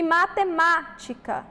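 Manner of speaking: matemática with MÁ punched; stressed syllable. Shown as a demonstration. Teacher pointing out the tonic syllable, mate-MÁ-tica stressed. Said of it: "aqui nós temos a sílaba tônica".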